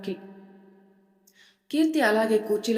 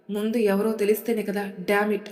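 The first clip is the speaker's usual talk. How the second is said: angry. Acted. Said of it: "అంటాడు అభయ్ కోపంగా".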